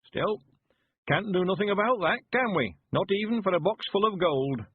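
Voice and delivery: put-on creaky old countryman, pleased with himself; old man voice. A narrator's reading. Weevil rallies himself.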